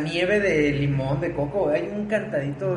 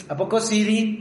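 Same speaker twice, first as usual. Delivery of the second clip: higher, lilting Irapuato catchphrase; Irapuato sing-song; 6 semitones higher than usual. Shown as a demonstration. Friend shows an Irapuato catchphrase, sing-song. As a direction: do the Irapuato lilt, voice lifted. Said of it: "Así como de".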